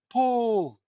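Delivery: high, loud drawn call; shouted command. Acted. Tara pulling girl from quicksand, shouted command. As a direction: shout it as an acted heave.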